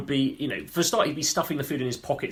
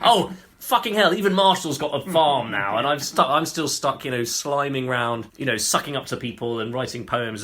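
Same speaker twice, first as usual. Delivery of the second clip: Juvenal; 3 dB louder than usual. Retold or imitated. Juvenal reading of his friend's farm, mock angry. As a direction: rant enviously as the poet still stuck. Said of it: "making even more angry".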